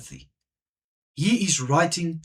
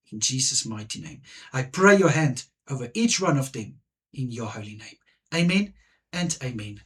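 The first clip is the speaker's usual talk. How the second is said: earnest spoken prayer, building in fervour; heartfelt closing prayer, swelling towards the middle. Acted. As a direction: pray it aloud to the Father, rising in intensity. Closing prayer for spiritual leaders.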